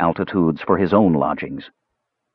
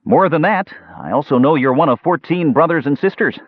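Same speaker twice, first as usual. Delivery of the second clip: raised, lilting friendly voice; trying to sound agreeable; 8 semitones higher, 3 dB louder than usual. A narrator's reading. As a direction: make an effort to be agreeable, pitched high. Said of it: "He tried to make his voice agreeable".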